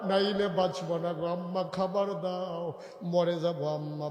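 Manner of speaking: mildly tearful pleading, calmer now; crying child. Acted. Starving children begging mother, mild tearful plea. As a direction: plead with a touch of tears. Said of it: "বাচ্চারা কাঁদতেছে".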